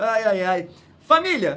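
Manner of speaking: loud, laughing through the words. Restarting a video for the audience after stumbling, laughing while talking. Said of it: "por que eu tô rindo?".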